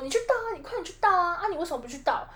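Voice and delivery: sing-song tease, mimicking the brother; mocking kid brother. Imitating the brother's taunt. (模仿弟弟，高音挑衅)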